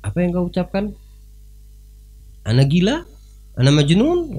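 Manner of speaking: high offended questioning; indignant king. Retold or imitated. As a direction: demand an answer, offended. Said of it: "Harun Ar-Rasyid bertanya". (raja tersinggung bertanya)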